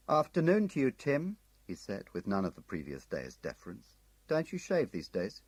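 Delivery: cocky, sneering hello; insolent Munslow. Acted. Agent Munslow greeting Tim, cocky and insolent.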